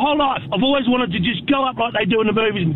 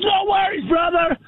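lightly voiced vendor, pitched up; imitated hot dog seller; 5 semitones higher than usual. Hot dog seller taking a tourist's order, imitated upbeat call. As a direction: call it higher, imitating the New York seller. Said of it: "He goes".

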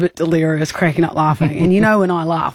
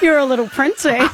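put-on higher-pitched little kid voice; lightly voiced small boy; imitated small child; 7 semitones higher than usual. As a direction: mimic a cheeky young child. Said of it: "And he's like".

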